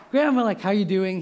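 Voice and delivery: high, loud playful greeting; calling grandma up to tease her; teasing friend voice. Retold or imitated. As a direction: bug grandma cheerfully on the phone. Friend teasing his grandma on phone.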